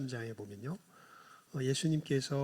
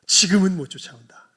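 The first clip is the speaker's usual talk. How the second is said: loud whisper; 3 semitones higher, 15 dB louder than usual. Acted. Jesus' quoted reply.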